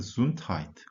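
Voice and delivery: Gesundheit slow, weight on GE; stress on the first syllable. Shown as a demonstration. Teacher shows where the stress goes, first syllable. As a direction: lean on the start of Gesundheit. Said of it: "강세를 앞에 두고 읽으셔야 합니다".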